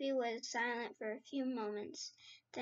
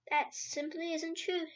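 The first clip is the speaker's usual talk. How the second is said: higher, indignant protest; angry cry; 5 semitones higher, 3 dB louder than usual. Acted. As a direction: snap back, offended. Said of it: "Sophie cried angrily".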